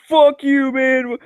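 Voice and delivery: an offended coworker lashing out; angry retort. Retold or imitated. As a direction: snap it back at him, offended. Coworker snaps back angrily.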